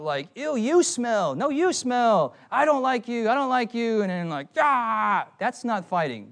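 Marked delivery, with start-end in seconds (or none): 0.3-4.0 mock a petty kids' quarrel, pitched up; immature squabbling. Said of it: "That's immature stupidity". 4.6-5.3 mock fight yell. Mimed end of childish fight.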